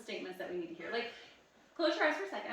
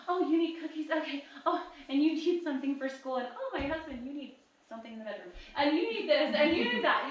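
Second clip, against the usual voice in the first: higher, louder mock of a frazzled mom; imitating harried mom; 4 semitones higher, 6 dB louder than usual. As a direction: rattle off everyone's demands like a worn-out mom. Voicing a busy mom's demands.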